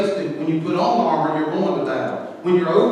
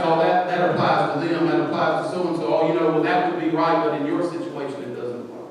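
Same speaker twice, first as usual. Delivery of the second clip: soft, sly and fading; a hint of a sly tempter, quieter; enemy's whisper; 4 semitones lower, 7 dB quieter, faster than usual. The enemy murmuring doubts into your ear, soft and sly. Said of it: "trying to whisper in your ear".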